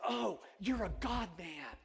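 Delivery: slow, imitated thick Persian accent. Rug shop owner greeting the pastor, imitated Persian accent. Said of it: "had just this real thick accent".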